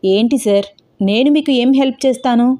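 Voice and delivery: a touch of surprise, lightly voiced vendor; puzzled, understated surprise; mild surprise. Ice cream vendor puzzled by a stranger's request, mildly surprised. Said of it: "ఆశ్చర్యంగా చూస్తూ అడిగాడు".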